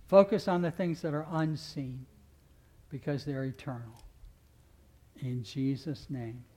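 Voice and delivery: earnest pastoral prayer voice. Acted. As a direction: pray over the church, rising then settling. Closing prayer over congregation.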